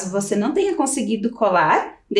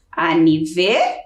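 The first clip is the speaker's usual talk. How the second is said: slow syllables; 6 semitones lower, slower than usual. Shown as a demonstration. Teacher showing the split word, slowly. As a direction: say "Aniver" slowly, then pause. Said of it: "separado desta forma".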